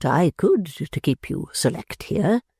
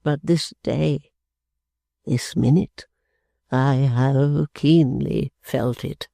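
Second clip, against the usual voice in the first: put-on slow, broken old man; the father mourning his humiliation; grieving father; slower than usual. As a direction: dwell on the shame slowly. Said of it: "Coming out of his fit of grief".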